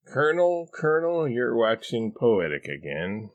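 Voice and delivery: high, loud interrupting warning. A narrator's reading. Wife warns rambling husband, high and insistent. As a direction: cut in high, then settle. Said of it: "Mary warns".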